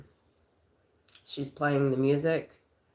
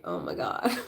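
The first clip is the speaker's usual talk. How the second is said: laughing; 6 semitones lower than usual. Retold or imitated. Laughing disbelief.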